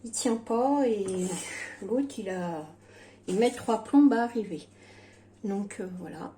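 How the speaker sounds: talking with no dentures; toothless speech. Real, not acted. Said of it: "j'ai recassé mon dentier".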